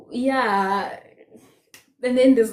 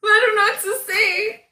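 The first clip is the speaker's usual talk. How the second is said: laughing, pitch much higher; kind gentle laugh; 10 semitones higher, 3 dB louder than usual. Real, not acted. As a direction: giggle through the words. Laughing about readers' comments.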